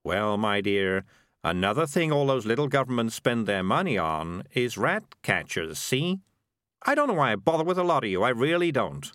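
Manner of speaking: lightly voiced exasperated know-it-all; condescending schemer Morris. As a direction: talk down to a naive companion.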